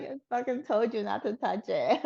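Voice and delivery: said through a laugh, mock exasperated; laughing retort. To the guard who grabbed the vibrator, laughing mock scolding. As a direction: laugh as you tell her off.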